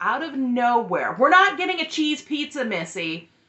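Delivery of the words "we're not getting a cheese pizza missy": put-on sudden blurted yell, loud and high. Retelling how mom suddenly yelled at the sister in the store: imitating mom yelling loudly. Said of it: "And just yells out".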